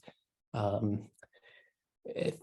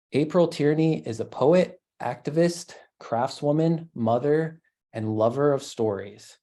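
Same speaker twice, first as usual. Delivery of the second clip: reading a bio aloud, measured and clearly phrased; read-out event introduction; formal introduction. Real, not acted. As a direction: introduce the poet from a written bio, lifting each item in the list. Reads the poet's bio aloud.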